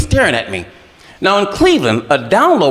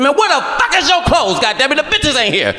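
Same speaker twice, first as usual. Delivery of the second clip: shocked yell; 9 semitones higher than usual. Retold or imitated. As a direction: shout in shock at the sight. Shocked at naked producer.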